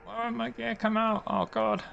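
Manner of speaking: high, strained panic; desperate, rising dread; terrified gibbering. Real, not acted. Gear stuck on landing approach.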